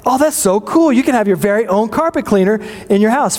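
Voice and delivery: high, bright gush of excitement; excited. Retold or imitated. Husband retelling the carpet cleaner gift, excited and high. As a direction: retell your own thrilled pitch for a gift, pitched high. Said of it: "I was very excited".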